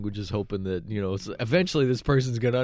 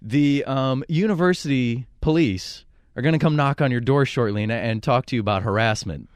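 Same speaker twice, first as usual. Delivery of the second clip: mock-official warning, starting loud and raised; posing police officer; 3 semitones higher, 5 dB louder than usual. Fake officer threatens caller with university police, mock-stern. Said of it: "I used Officer Conway".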